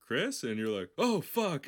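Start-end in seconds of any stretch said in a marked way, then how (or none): 0.0-0.4 high, loud questioning call; grandfather calling out. Pretend. Voices dead grandfather calling out. 1.0-1.7 high, loud cry of dismay; hammed-up horror at being caught; mock alarm. Acts dismay at grandfather's voice.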